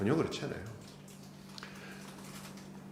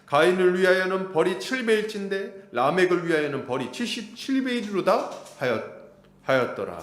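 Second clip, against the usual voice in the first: raised, solemn reading of Lamech's boast; lightly dramatized Bible reading; scripture reading; 4 semitones higher than usual. Acted. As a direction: read it out like a proclamation. Reading Lamech's words aloud.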